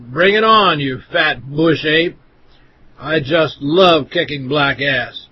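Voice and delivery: slow, scornful taunting. Acted. Narrator taunting a woman in the store, slow scorn. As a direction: sneer each word out slowly. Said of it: "scornfully and said".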